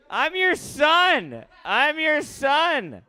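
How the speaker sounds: slow, high drawn-out whine; mock son plea. Comic to older comic, slow high mock plea. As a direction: beg like a needy son.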